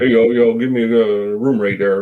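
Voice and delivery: playful put-on goat voice. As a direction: sweet-talk the clerk like a goat. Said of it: "maybe in the goat's voice".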